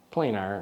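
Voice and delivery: "planar" with a long A, as in plane. Shown as a demonstration. Settling on a name for the lens, long-A planar. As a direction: say "planar" as PLAY-nar. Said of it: "I'll call it that".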